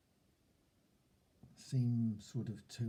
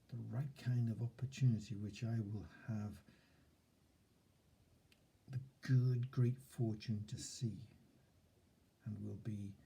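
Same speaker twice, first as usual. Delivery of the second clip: upbeat affirmation. Shown as a demonstration.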